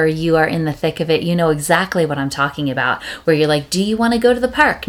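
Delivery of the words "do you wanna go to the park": imitating an asking parent. Parent asking toddler questions.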